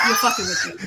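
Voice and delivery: high, laughing shout of disbelief. Real, not acted. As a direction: cry it out half laughing, half outraged. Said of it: "She's all bent now".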